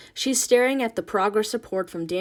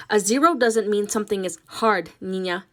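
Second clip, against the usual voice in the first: louder, stern lecturing mother; scolding; 5 dB louder than usual. Acted. Ma lecturing Nina, louder. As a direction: lay down the law.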